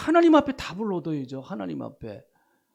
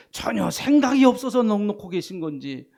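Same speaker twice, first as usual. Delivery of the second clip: ordinary delivery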